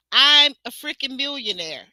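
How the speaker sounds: quoting Will. Retold or imitated. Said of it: "every other sentence is".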